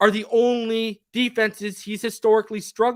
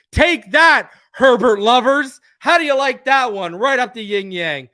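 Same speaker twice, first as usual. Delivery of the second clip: loud, higher, crowing at the rivals; gloating taunt; 4 semitones higher, 8 dB louder than usual. Real, not acted. Host taunting Justin Herbert fans on stream, loud gloating. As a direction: rub it in their faces, loud and high.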